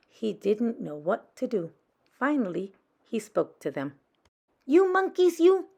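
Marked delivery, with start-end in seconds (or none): 4.7-5.7 higher, louder scolding; scolding peddler. Acted. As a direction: wag a finger and scold the monkeys. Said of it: "he said".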